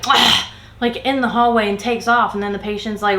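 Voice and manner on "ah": short huff of exasperation, acted out; imitated exasperated "ah". Coworker storming off in the hallway, imitated exasperated noise. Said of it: "gives a whole, like".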